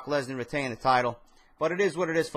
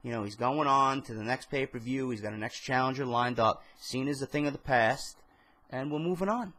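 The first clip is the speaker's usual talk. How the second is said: calm. Retold or imitated. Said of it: "just calmly say".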